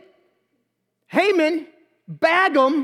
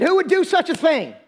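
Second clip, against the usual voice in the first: mildly indignant, higher-pitched demand; enraged king; 4 semitones higher than usual. Acted. King asks Esther who threatens her people, mild outrage. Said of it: "King is enraged".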